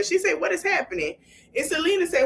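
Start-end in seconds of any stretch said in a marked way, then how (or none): 0.4-1.2 high-pitched mock bewilderment; startled. Retelling a friend's reaction to the walkout, mock startled. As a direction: lift it high, as a puzzled bystander would.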